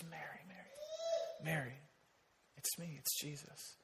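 very soft, low and slow, close to a whisper; tender hushed reassurance. Acted. Jesus calls Mary to recognize him, hushed and tender. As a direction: quietly reassure her, barely voiced.

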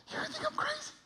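tiny, very high hushed voice; redneck stranger confiding. Retold or imitated. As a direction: squeak it confidentially, barely audible. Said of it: "the most redneck human being you've ever met".

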